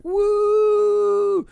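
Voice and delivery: shrill high whoop of joy; mock fan cheer. Fans cheering for the studio, a high whooping woo. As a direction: cheer like a crowd of adoring fans. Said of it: "Everyone was just like".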